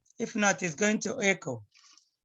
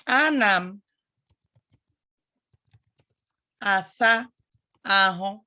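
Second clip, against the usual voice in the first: Ana m, asa, ahụ, each word set apart with pauses; slow word by word. Shown as a demonstration. Teacher spacing out Ana m asa ahụ for a child.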